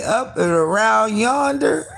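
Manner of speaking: high, loud, slow mock holler; mock hollered quote. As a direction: belt it out like her. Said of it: "What she say".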